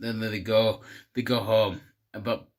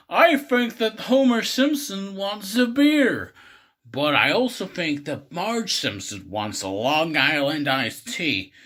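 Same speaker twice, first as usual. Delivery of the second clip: showman voice; 3 semitones higher, 4 dB louder than usual. Retold or imitated. Magician announcing on stage.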